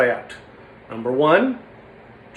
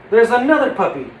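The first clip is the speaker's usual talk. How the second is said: gasp, then higher-pitched discovery; surprised hope; 5 semitones higher, 4 dB louder than usual. Acted. Puppet noticing another puppy, gasping surprise. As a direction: catch your breath and lift the pitch.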